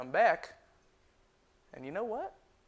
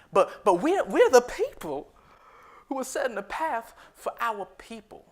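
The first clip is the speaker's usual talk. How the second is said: rousing proclamation; 8 semitones higher, 10 dB louder than usual. Acted. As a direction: proclaim it proudly for your people. Proclaiming pride in his people.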